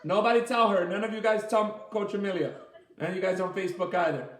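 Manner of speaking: laughing playful warning. Real, not acted. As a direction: giggle through it like sharing a secret. Laughing, conspiratorial to class.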